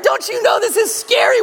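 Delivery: a high, full-voiced child's scream of accusation; screaming kid. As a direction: shout "Don't you know this is scary?" as a terrified child. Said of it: "they are screaming".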